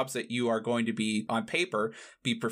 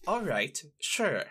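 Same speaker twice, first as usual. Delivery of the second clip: dry officer; slower than usual. Acted. Officer grants the name.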